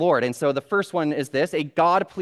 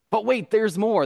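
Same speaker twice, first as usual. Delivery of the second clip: high, punchy sales catchphrase; infomercial pitchman; 6 semitones higher than usual. Retold or imitated. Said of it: "annoying guy that talks too loud".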